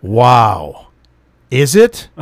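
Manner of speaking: low, mock-amazed retort; sarcastic. Customer answering clerk about an expired license, dripping sarcasm. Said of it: "Sarcasm, sir, sarcasm".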